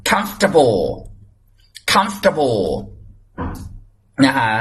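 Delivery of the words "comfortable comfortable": "comfortable" as compact "KUMF-tuh-bo"; correct pronunciation. Shown as a demonstration. Teacher asking students to repeat at home, correct "comfortable". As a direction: model "comfortable" with a falling end, no "table". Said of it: "ไหนออกเสียงอยู่บ้านได้ไหมลูก".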